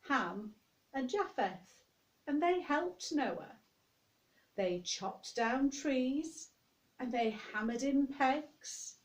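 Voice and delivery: slow, gentle read-aloud for little ones; storytelling to children. Acted. Storyteller reading Noah to young children, slow and gentle. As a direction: tell it like a bedtime story to toddlers.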